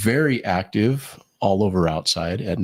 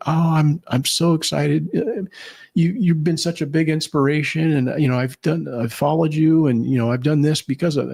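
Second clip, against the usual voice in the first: excited gushing fan; 6 semitones higher than usual. Retold or imitated. Runner mistaking him for David Goggins, gushing excitedly. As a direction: imitate a fan gushing at her hero, voice up high. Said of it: "so excited and shaking".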